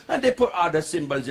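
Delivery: light West Indian accent; a touch of old London West Indian accent. Shown as a demonstration. Comic describes old men's speech, light West Indian accent. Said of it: "still got the West Indian accent".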